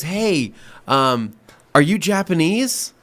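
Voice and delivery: blunt but friendly mimicry; imitated blunt question. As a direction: play a customer asking point-blank. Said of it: "Just very blunt like that".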